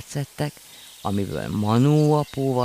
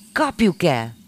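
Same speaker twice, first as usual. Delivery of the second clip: higher, louder excited shout; eager shout; 6 semitones higher, 6 dB louder than usual. A narrator's reading. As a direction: yell it and start running. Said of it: "kiáltotta". (izgatott kiáltás)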